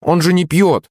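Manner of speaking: high, amused exclamation; laughing protest. A narrator's reading. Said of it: "засмеялся я".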